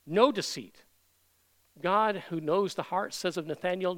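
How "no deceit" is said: "No deceit" with NO hit louder, then falling; strong stress on NO. Shown as a demonstration. Preacher showing strong language, hard stress on "No". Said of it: "very strong language".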